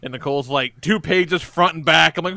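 ordinary talk, nothing marked

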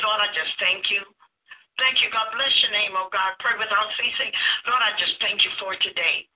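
a mild prayerful murmur, gently thankful; sample prayer. Shown as a demonstration. Demonstrating a prayer.

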